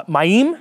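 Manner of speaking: "Mayim" stressed on its second syllable, rising. Shown as a demonstration. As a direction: land on the end of "Mayim". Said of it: "the emphasis is on the second syllable".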